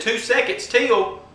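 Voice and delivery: high, slow mock echo; Jarney. Neighbor challenging the countdown, high drawn-out mocking echo. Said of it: "this is my impression of him".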